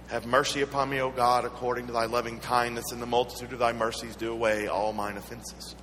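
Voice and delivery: even, level-toned recited prayer; psalm recitation. Acted. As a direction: recite it from memory on a steady tone.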